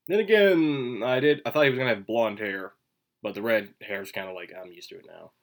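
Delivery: talking with gum in mouth; chewing gum. Real, not acted. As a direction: speak around a piece of gum. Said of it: "still have the gum in my mouth".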